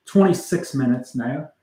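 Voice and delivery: put-on slow, drawn-out Scottish accent. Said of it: "Now I'm talking in a, you know, Scottish accent".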